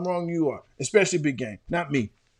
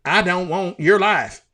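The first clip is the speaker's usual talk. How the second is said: slow, drawn-out Texas accent, imitated; mock Texas accent; 3 semitones higher, 4 dB louder than usual. Co-host quoting a Varsity Blues line in mock Texas accent. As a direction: do a movie-style Texas accent. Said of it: "His accent is the Ben Affleck of accents".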